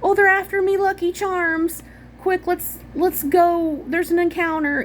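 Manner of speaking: high, hammed-up Irish leprechaun voice; squeaky Irish leprechaun, mock-frantic. Shown as a demonstration. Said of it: "I don't wanna talk like a leprechaun in the Shire".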